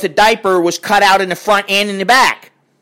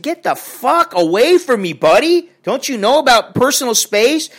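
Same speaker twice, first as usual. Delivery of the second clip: higher-pitched retold telling-off; annoyed confrontation; 6 semitones higher than usual. Traveller tells man to back off, annoyed confrontation. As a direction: confront someone crowding you.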